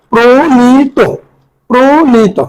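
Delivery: "প্রণীত" in drawn-out syllables, pro-nee-to; pronunciation demo. Shown as a demonstration. Teacher repeating it for exam students, "প্রণীত" stretched out. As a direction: separate and lengthen the syllables of "প্রণীত". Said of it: "ওকার উচ্চারণ হবে".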